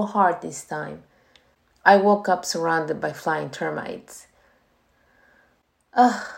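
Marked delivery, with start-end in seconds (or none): 5.9-6.3 a tired, sighing ugh; weary groan. Acted. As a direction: groan at the chores ahead. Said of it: "I thought with a sigh".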